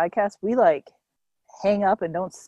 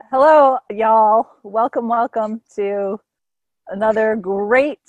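fading podcast intro; 3 dB louder than usual. Real, not acted. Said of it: "Introductions have gotten progressively less enthusiastic".

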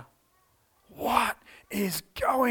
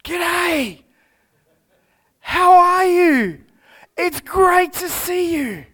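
loud, cheery, higher Australian G'day; Australian accent; 9 semitones higher, 8 dB louder, slower than usual. Pretend. Preacher imagining Jesus greeting the women in an Australian accent. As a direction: boom it out like a friendly Aussie mate. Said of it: "if he was Australian".

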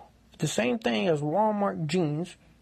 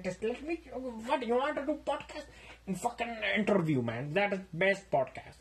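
higher, a bit pushy; lightly voiced pushy roommate; 4 semitones higher, 4 dB quieter than usual. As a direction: coax him into the interview, slightly higher. Roommate pitches interview.

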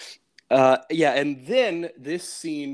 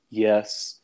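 lower, deadpan one-word answer; flat yes; 4 semitones lower than usual. Retold or imitated. Pug obeying the order to say yes, flatly. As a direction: say it flatly, giving nothing away. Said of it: "He kinda says it very flatly".

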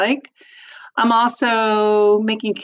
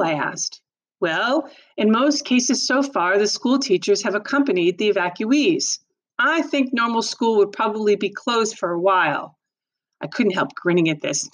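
expressive read-aloud narration; story narration. A narrator's reading. Teacher reads novel aloud.

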